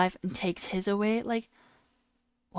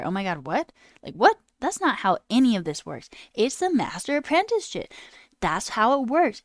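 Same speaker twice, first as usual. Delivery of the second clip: a half-mock indignant shout, louder and higher; retold indignant outburst; 4 semitones higher, 5 dB louder than usual. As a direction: act out your past outrage, loud. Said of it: "And I was like".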